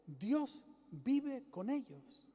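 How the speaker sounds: slow, drawn-out heavenly voice; preacher voicing the voice from heaven, slow. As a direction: let the voice from heaven speak slowly. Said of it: "Oyó una voz que decía".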